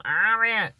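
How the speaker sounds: "Harriet" said without its H, as "arriet"; dropped H. Shown as a demonstration. Explaining how people say her name, H dropped. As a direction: drop the H in "Harriet". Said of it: "That's what people say".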